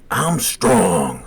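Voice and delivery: loud, drawn-out mock bellow; imitated roar. Patient kicking the nurses' door, roaring. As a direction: bellow it like a raging strongman. Kicker's roar heard from hall.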